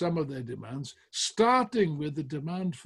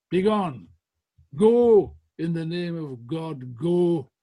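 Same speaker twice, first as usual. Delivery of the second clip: berating; 2 semitones higher, 7 dB louder than usual. Retold or imitated. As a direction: rage at the members and drive them out. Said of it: "And he starts berating them".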